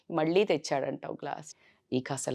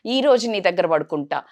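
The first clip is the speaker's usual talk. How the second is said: whiny pleading; 4 dB louder than usual. Retold or imitated. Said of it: "అని మారం చేస్తుంటారు".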